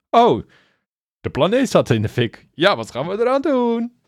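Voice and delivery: mock quippy sarcasm. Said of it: "Het sarcastische". (spottend sarcastische filmgrap)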